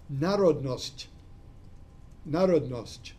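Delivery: "narodnost" spoken slowly and clearly, falling at the end; Russian word said carefully. Shown as a demonstration. Lecturer models the Russian word for his students, careful and clear. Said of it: "And nationalism in Russian is".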